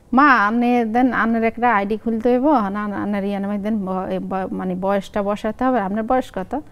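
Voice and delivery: son's question in Lakshmipur dialect. Shown as a demonstration. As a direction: act out a son asking in the Lakshmipur regional accent. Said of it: "আর আমি আঞ্চলিক ভাষায় বলি". (লক্ষ্মীপুরের আঞ্চলিক টানে ছেলের প্রশ্ন)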